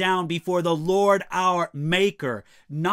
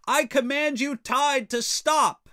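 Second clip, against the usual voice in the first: raised voice, imperious order to the sea; commanding king; 7 semitones higher than usual. Retold or imitated. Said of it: "was famous for commanding the tide of the sea".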